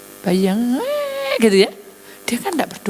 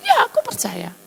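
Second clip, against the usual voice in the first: high earnest reply. Acted. Mother answering angel in vision.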